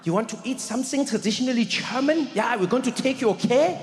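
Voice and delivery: a hint of a chummy German accent; light German accent. German friend suggesting a traditional meal, light German accent. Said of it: "Rolf turns to me and he's like".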